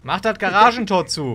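etwas höher gerufener, genervter Befehl; genervtes Rufen. Pretend. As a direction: ruf es genervt rüber. Streit, befiehlt den anderen zu gehen. (genervt gerufen)

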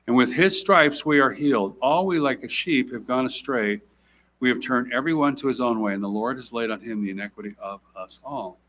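measured formal Bible reading; scripture reading. Acted. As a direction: read the passage with weight. Reads Isaiah aloud.

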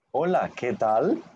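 "Hola, ¿qué tal?" read slowly, every word clear; slow model reading. Shown as a demonstration. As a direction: slowly model the line for students. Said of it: "la primera frase de Fernando".

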